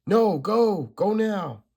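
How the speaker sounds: high, loud urgent cry; desperate shout. Acted. Supergirl screams at Doctor Light to go now, loud. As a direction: yell at her to get out.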